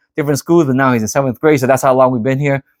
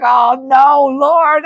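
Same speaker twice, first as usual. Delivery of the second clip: melting over the dog; 11 semitones higher, much slower than usual. Retold or imitated. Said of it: "I was like".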